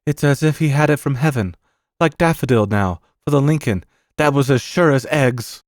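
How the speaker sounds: a hint of an awed, loyal servant; Bassett. Servant confiding in the uncle about the boy's tips, lightly voiced awe.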